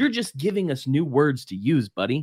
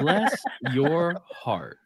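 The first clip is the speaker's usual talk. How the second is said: southern drawl; much slower than usual. Retold or imitated. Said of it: "southern saying".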